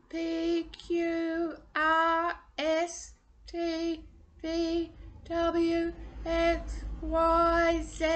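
high, strained consonants on one held breath; held-breath alphabet. Shown as a demonstration. Voice coach drilling consonants on a held breath. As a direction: run the letters on a single held breath. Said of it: "hold our breath going".

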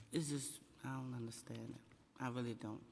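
real, subdued upset, voice dropping low; emotional. Real, not acted. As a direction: speak low and quietly, overcome with emotion. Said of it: "I'm emotional".

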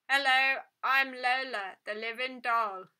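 a lifeless talking toy speaking through a small speaker; metallic doll voice. A narrator's reading. Doll greeting the girl who touched it, tinny telephone voice. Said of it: "metallic voice".

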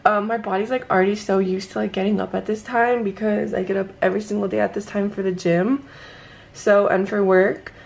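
just woke up, sleepy; raspy first-thing-in-the-morning voice; groggy morning voice. Real, not acted. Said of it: "don't mind my voice either".

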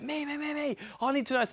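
high, whiny me-me mimic; mocking self-centred whine. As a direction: parody someone who only cares about themselves. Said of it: "most people are like".

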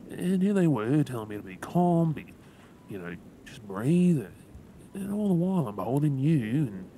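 swept up reliving the crash; carried away. Real, not acted. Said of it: "Yeah, sorry, I got carried away".

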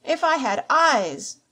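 slow, high, loud lament; drawn-out, raging wail; anguished cry. A narrator's reading. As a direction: cry out in helpless frustration. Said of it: "he cried".

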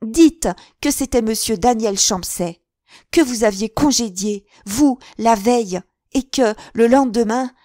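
very loud and high throughout; violent outburst. A narrator's reading. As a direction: hurl the accusation at him. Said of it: "reprit-elle avec une violence convulsive".

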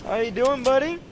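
high, loud, cutesy check-in; playful check-in. Pretend. Gamer calling to a buddy in-game, playful high voice. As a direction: pitch it way up, as if to a little pal. Taunting chat to another player.

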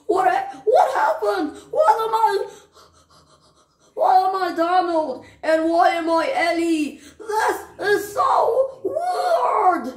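high, loud, half-laughing alarm; laughing panic. Acted. Friends discover the body swap, laughing in alarm. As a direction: giggle through the confusion.

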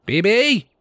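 calling a name into the house, high; calling out for his son, high and searching. A narrator's reading. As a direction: call out for him, searching. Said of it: "he called out".

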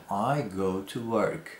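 slow, careful teacher read; slow model sentence. Shown as a demonstration. Teacher models a simple sentence, slow and clear. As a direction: say it slowly for learners.

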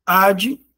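"Advogado" split as ad... vo... ga... do; syllable by syllable. Shown as a demonstration. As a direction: pause after each syllable of "Advogado". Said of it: "Com mais de três sílabas".

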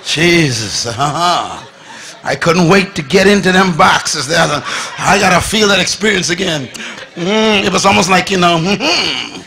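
loud, laughing savoring of a treat; hammed-up joy over the cookies; laughing delight. Preacher relishing the cookies.

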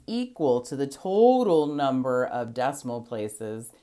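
teacher stressing total for the class. Shown as a demonstration. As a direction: hit the word total so the class notices it. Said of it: "Why did I emphasize the word total?".

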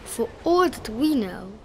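lightly voiced elephant, gently insistent; Horton, earnest elephant. A narrator's reading. Elephant asking that a little family be spared, mildly pleading. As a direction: plead a little, leaning on key words.

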